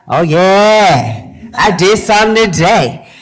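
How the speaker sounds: mock-triumphant, drawn-out cheer; gleeful self-congratulation. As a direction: pat yourself on the back, loudly pleased. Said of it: "you feel like".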